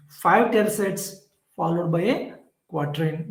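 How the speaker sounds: Five tercets drawn out slowly, each word weighted; slow and deliberate. Shown as a demonstration. Teacher stressing the structure to students, slow deliberate. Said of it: "So the composition is like this".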